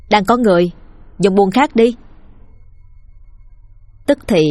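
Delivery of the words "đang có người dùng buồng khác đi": faking a woman's voice behind the door; a man putting on a light female voice; man doing a woman's voice. Acted. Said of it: "Thành mới giả giọng phụ nữ lên tiếng".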